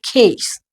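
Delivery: "खेस" as khay with a puff; aspirated American K. Shown as a demonstration. Teacher showing American K, aspirated. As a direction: release "खेस" on a strong breath. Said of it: "वो क्या बोलते हैं".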